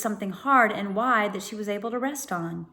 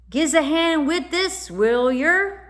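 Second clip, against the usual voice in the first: high, loud cockney urchin voice; cockney boy; 8 semitones higher, 6 dB louder than usual. A narrator's reading. Boy from the boat asks the children for help, loud cockney urchin. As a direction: call out like a scruffy London lad.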